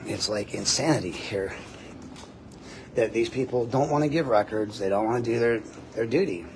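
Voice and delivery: ordinary delivery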